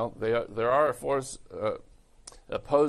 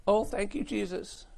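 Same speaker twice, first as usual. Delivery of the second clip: high, mock-grateful falsetto; gushing church sister; 10 semitones higher than usual.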